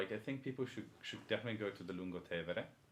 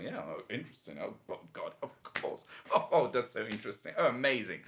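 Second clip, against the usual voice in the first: fake polite interest; 3 semitones higher, 5 dB louder than usual. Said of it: "I was like".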